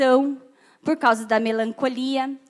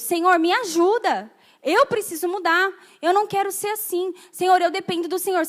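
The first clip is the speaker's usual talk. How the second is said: higher-pitched earnest plea; a touch of desperate prayer; pleading prayer; 4 semitones higher than usual. Acted. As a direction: plead for help, voice raised in pitch. Acts out pleading prayer to the Lord.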